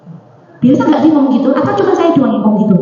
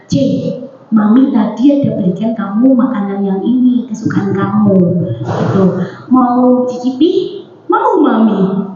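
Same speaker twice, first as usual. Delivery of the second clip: put-on lower, coaxing offer to a child; gentle inviting tone; 3 semitones lower than usual. Mother offers favourite food to her child, gently inviting. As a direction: offer it gently, slowing at the end. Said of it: "saya pakai cara yang berbeda".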